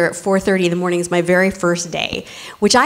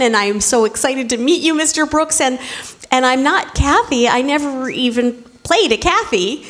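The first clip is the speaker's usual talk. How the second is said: flustered insisting; 4 semitones higher than usual. Retold or imitated. Insisting she's not Kathy.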